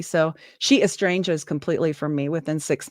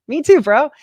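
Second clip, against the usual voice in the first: higher, louder with a laugh; laughing mockery; 8 semitones higher, 5 dB louder than usual. Mocking the pilot, laughing, higher and louder. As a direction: laugh it in his face. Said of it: "I was like".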